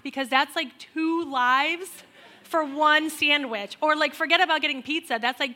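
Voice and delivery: rising outrage at the donation math; incredulous rant. Real, not acted. Ranting about donation math.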